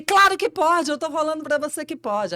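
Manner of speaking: alta e aguda, teimosa; insistência alta. Retold or imitated. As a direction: insista sem dar margem. Discussão rápida. (amigo insiste, bem alto)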